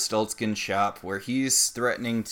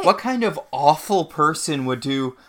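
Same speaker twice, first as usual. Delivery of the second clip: holier than thou; 3 semitones higher, 4 dB louder than usual. Pretend. Acting out holier-than-thou Mary Margaret.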